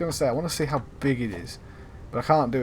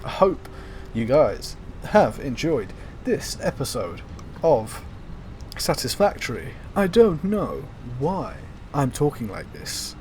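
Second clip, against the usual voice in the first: halting, slowed sign-off, each word split by dramatic pauses; a jump up on hope, then slow Shatner-style breaks; William Shatner impression; slower than usual. Shown as a demonstration. Signing off his Satisfactory episode, mock Shatner pauses. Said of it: "William Shatner must be proud right now".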